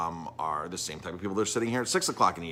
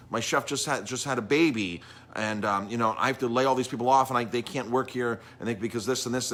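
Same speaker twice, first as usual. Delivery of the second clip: retold upset protest, pitched up; 3 semitones higher than usual. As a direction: plead an indignant case as the upset owner. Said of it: "was really upset".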